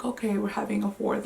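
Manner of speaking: casual, unbothered retold reply; imitating a laid-back reaction; nonchalant imitation. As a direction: shrug it off as no big deal. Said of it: "just so nonchalant".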